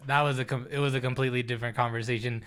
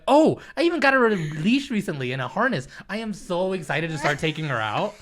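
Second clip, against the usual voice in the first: excited reenactment; 4 semitones higher than usual. Retold or imitated. Replaying his own reply about the cat, excitedly. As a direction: gush like you just bought the leash. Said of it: "I would say it just like I said it".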